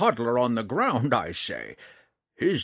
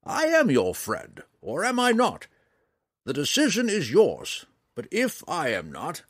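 put-on high, raised-voice old ranger demanding trust; perturbed; 6 semitones higher, 4 dB louder than usual. A narrator's reading. Old ranger challenging Drizzt to confide or leave, perturbed. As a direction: press him hard, pitched up and agitated. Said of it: "seeming perturbed".

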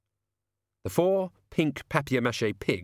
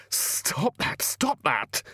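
screamed; 5 semitones higher, much slower than usual. Acted. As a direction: cry out in panic to stop it. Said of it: "he screamed".

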